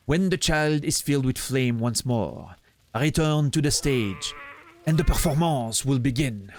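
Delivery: put-on mostly English words, French-accented delivery; light French accent. Streamer voicing Grimm's invitation, light French accent. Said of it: "bring more of the French actual pronunciation".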